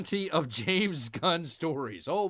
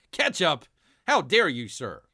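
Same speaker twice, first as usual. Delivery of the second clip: louder, hammed-up mock offence; mock indignation; 7 dB louder than usual. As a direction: play scandalized at the very idea, in jest. Mock outrage at ketchup.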